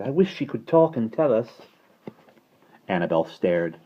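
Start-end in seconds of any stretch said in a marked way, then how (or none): 0.0-1.6 high-voiced little girl; eager, piping wish; wishful cry. A narrator's reading. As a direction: wish aloud like a child. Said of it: "she cried".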